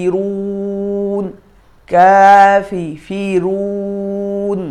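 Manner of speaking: কাফিরুন said with a clear i, not কাফেরুন; kafirun with i. Shown as a demonstration. Teacher corrects কাফের to কাফিরুন for students. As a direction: keep the i sharp in কাফিরুন, split into কাফি and ফিরুন. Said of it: "এখানেও কাফের না".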